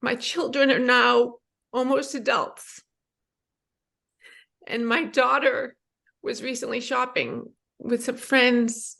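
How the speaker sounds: real emotion welling up while telling it; getting emotional. Real, not acted. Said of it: "sorry, I'm getting emotional".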